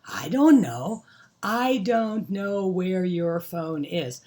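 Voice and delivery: drawn-out parental reply, called back; exasperated mom. Acted. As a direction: answer the child loudly, stretching it out. Mom answering the child's call.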